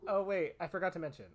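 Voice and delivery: dry sarcastic tone. Shown as a demonstration. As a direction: say it with heavy sarcasm. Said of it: "I am saying this with a sarcastic inflection".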